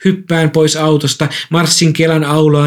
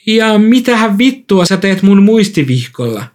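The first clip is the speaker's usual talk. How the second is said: higher-pitched, mildly angry challenge; a touch of outraged disbelief; indignant demand; 6 semitones higher than usual. Acted. Narrator confronts woman over notebook.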